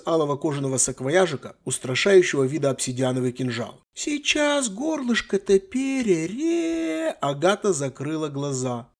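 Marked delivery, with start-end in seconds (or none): 3.9-7.2 put-on high, slow, eerie girlish voice; girl's threat. Young mage taunting her bound victim, high and slow. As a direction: drawl the threat in a high, childish voice.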